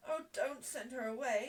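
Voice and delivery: tearful plea, acted lightly; mock sobbing. Ermengarde pleads for her friend, mock sobbing. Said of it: "she sobbed".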